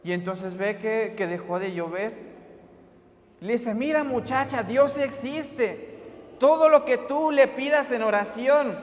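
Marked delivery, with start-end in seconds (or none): 3.7-8.8 high, emphatic declaration building in force; acted fervent proclamation. Youth leader assuring the girl God exists, fervent. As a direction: proclaim it with conviction, word by word.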